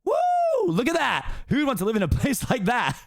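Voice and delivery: high fast-talking donkey voice; excited Donkey. Acted. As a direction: gush admiringly at the ogre. Donkey sees the swamp.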